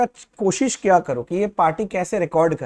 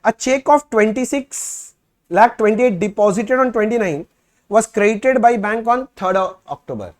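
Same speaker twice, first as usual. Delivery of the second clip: reading the question aloud; much slower than usual. Shown as a demonstration. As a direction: dictate each phrase slowly for the class. Teacher reads problem text aloud.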